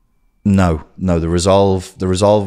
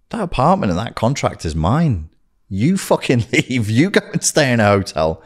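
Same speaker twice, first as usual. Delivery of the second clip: higher, emphatic turning of tables; retold ultimatum; 5 semitones higher than usual. Him texting his ex to leave, emphatic ultimatum.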